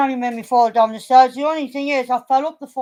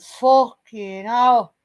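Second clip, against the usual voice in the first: drawn-out, stunned mock swearing; retold shock; much slower than usual. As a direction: imitate a slow, appalled reaction to a bad bruise. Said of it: "your face said it all when you saw the full extent".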